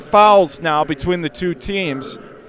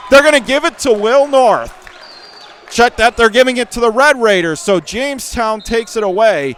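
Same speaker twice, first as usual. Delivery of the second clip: excited call; 5 semitones higher, 4 dB louder than usual. Real, not acted. Correcting a possession call.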